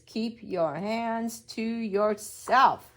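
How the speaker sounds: loud, slow firm order; stern teacher. Acted. Teacher telling David to keep his hands to himself, loud and slow. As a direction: plant each word like a rule. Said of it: "the teacher says".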